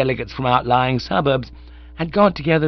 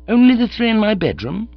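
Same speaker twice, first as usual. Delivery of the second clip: higher, rising disbelief on "Only the three in my bedroom?"; incredulous echo; 11 semitones higher, 6 dB louder than usual. Acted. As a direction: echo the butler in sheer disbelief. Bertie echoes Jeeves.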